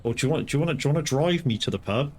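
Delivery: husband sweet-talking his wife for a lift, mock sweet; imitating a sweet-talking husband. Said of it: "where you go".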